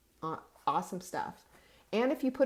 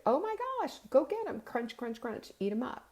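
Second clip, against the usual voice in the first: excited immune cells; 6 semitones higher than usual. Retold or imitated. Voicing immune cells attacking food.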